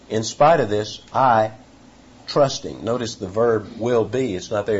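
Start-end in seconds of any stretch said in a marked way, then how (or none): 0.1-2.8 "I" hit louder, then a pause before "trusting"; abrupt, halting emphasis. Shown as a demonstration. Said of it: "It's very abrupt, almost halting in its approach".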